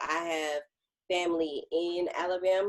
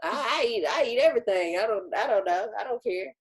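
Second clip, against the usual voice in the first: defiant dad; 5 semitones higher, 4 dB louder than usual. Retold or imitated. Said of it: "He said".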